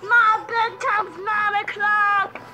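high, slow, shouted outrage; a big shocked cry over bedtime; outraged shout. Pretend. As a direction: yell it like a kid caught out. Outraged kid in pretend play.

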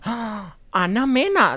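high excited squeal of a name; fangirl squeal. Retold or imitated. Spotting her idol at the party, high excited squeal. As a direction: shriek the name like a starstruck fan. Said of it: "le dije".

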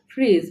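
ফ্রিজ with no D before the final J; silent D. Shown as a demonstration. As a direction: say ফ্রিজ as "frij". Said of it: "এখানেও কিন্তু ডির উচ্চারণ হবে না".

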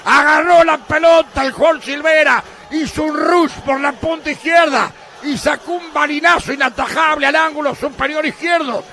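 screaming goal call, high and loud; breakneck goal commentary. Real, not acted. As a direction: roar the goal like a radio announcer.

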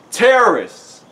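loud, high alarm shout; sudden panicked yell; Riley. A narrator's reading. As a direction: yell a warning at full voice. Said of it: "Riley shouted".

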